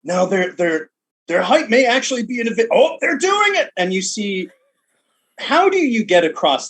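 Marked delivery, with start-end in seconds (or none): 0.0-3.7 announcer building to excitement, higher; sports announcer. Retold or imitated. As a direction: commentator caught off guard mid-sentence. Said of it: "the announcer just say".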